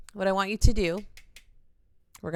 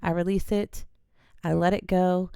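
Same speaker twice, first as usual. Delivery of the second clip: release affirmation demo. Shown as a demonstration. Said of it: "we're just gonna say".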